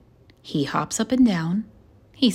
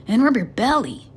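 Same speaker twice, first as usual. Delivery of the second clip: rushed addition; 5 semitones higher, 6 dB louder, faster than usual. A narrator's reading. Bob adds the extra step.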